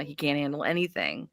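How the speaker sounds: ordinary talk, nothing marked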